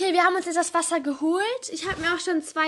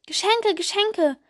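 excited calling; 5 semitones higher, 5 dB louder, slower than usual. Acted. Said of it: "riefen die Mäusekinder".

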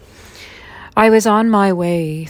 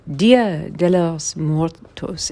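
"Dia de los Muertos" in a slow, anglicised Spanish accent; clumsy Spanish accent; slower than usual. Real, not acted. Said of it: "excuse me for my horrible Spanish accent".

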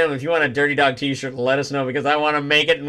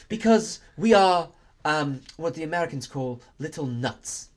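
put-on British accent; 3 semitones higher than usual. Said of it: "a British museum".

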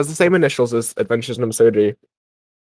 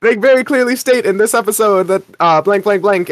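high, exasperated know-it-all fan correcting him; a pedantic fan calling him an idiot, raised and exasperated; mock annoyed listener; 8 semitones higher than usual. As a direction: scold him like a smug listener. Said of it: "any of you listeners being like".

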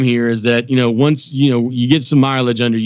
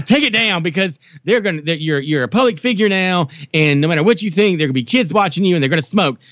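imitating mom; 4 semitones higher than usual. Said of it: "she hates it when I do her".

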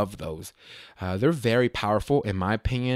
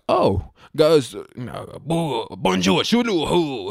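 higher, slow garbled French imitation; mock French chatter; 5 semitones higher, slower than usual. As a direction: mimic French speakers with nonsense syllables. Mimics French speakers' excited chatter.

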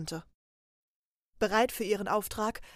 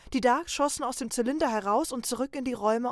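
usual speaking voice

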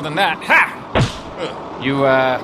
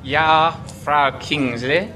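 put-on German accent; 4 semitones lower, much slower than usual. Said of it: "Use the accent".

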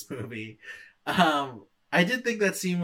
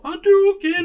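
shouted special move; 11 dB louder than usual. Retold or imitated. Retelling fight move shout.

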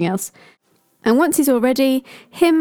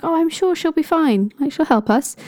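Thor voice; 7 semitones higher than usual. Acted. Thor voiced in retold myth.

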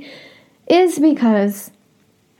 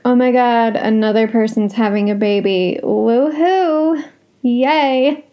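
sarcastic cheer. Retold or imitated. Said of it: "I'm literally rolling my eyes like".

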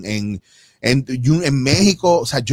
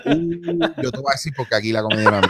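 mock challenge; 3 semitones lower than usual. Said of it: "lo vi con el rabito del ojo y dije".

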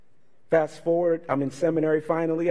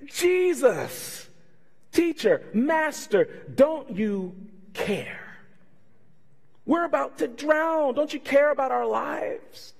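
mock panic; 10 semitones higher, slower than usual. Panicked disciples in storm.

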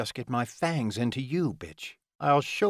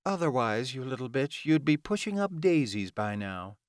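annoyed, higher-pitched villainess rant; 5 semitones higher than usual. Acted. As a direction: vent exasperation at the incompetent helper. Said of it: "she ranted".

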